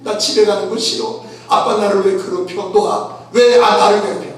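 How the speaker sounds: hammed-up child's whining; a child's mock tantrum; mock crying child. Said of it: "막 울고 불고".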